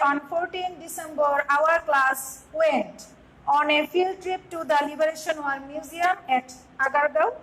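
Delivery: slow read-aloud of a passage; slow classroom reading of the passage. Acted. Teacher reads passage aloud.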